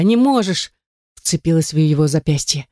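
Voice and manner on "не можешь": desperate cry. A narrator's reading. Heroine desperately clings.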